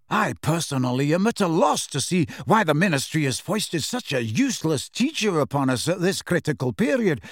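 a hint of indignant oratory; self-important schoolboy. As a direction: hold forth to impress the room.

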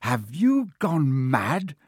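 slow, exasperated bellow. A narrator's reading. Ron to flustered Hermione, exasperated bellow. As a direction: bellow it, stretching each word. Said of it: "Ron bellowed".

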